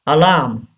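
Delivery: alarm as "a-LAAM"; silent R. Shown as a demonstration. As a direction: say alarm with a long "aa" and no R. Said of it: "R is not pronounced".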